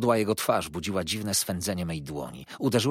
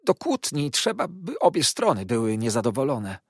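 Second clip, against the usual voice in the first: much higher, sugary servile voice; Uriah's fawning; 7 semitones higher, 6 dB louder than usual. A narrator's reading. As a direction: purr false affection. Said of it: "zauważył". (przesłodzony, służalczy głos)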